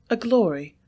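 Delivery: ordinary delivery, nothing marked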